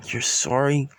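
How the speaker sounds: understated, stunned question; mild shock. Acted. Siblings answering their brother's apology, mildly shocked. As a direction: hold back the disbelief, only lightly shocked. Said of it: "Shocking Izuku and Izumi saying".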